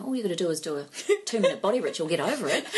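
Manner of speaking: mock glib advice. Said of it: "that I ever say".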